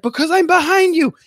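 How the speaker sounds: high, loud granny shout, fed up; exasperated old woman yell. Retold or imitated. Betty yells at Sharon, who thinks she's on the phone, high and loud. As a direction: bellow it at the friend standing right behind. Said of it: "And she's like".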